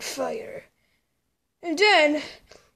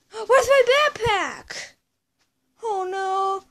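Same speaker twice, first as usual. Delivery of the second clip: frantic gasp; 3 semitones higher, slower than usual. Acted.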